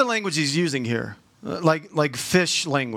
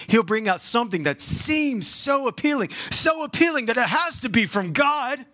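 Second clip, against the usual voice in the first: building excitement; 5 semitones higher than usual. Acted. Preaching, building to a peak.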